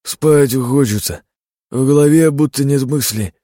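tongue tangling, fighting sleep; slurring. A narrator's reading. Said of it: "Язык Ильи начал заплетаться". (заплетающимся языком, медленно)

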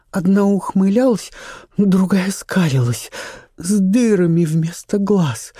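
put-on young actress, frightened. A narrator's reading. Charlotte recounting her nightmare.

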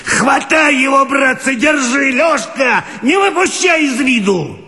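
high, strained yell at full force; old watchman yelling to grab the rider; bellowing with all his might. Acted. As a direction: roar it out to the crowd. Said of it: "орёт, что есть мочи".

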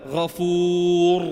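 غفور chanted very slowly, R full and heavy; heavy R in recitation. Shown as a demonstration. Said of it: "نقول على سبيل المثال". (تفخيم الراء في غفور)

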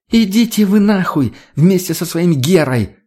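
high, loud furious shout. Acted. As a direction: yell it as she storms out of the car. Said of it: "закричала она".

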